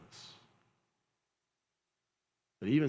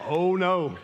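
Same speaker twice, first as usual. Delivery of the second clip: laughing, pitched up and louder; giggling through the punchline; 7 semitones higher, 5 dB louder than usual. Real, not acted. Pastor laughing at his own story to the congregation.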